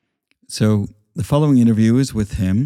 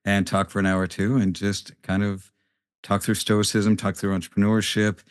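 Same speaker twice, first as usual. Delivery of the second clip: quiet, far from mic. Real, not acted. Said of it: "I sound very quiet on that".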